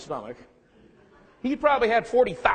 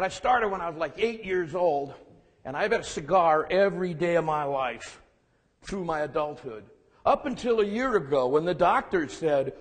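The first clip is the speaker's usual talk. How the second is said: gruff grandpa voice. Retold or imitated. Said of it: "gruff voice that he had".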